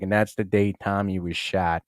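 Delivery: low, slow narrator, lightly impersonated; Ray Liotta. Acted. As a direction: do a slow, low-key actor impression. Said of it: "he's like ... I'm Ray Liotta".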